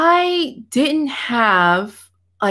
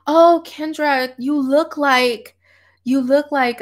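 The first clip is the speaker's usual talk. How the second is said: slow, drawn-out mock mom voice, pitched up; backhanded compliment; 4 semitones higher, slower than usual. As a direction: imitate mom's slow, backhanded praise. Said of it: "but it was backhanded".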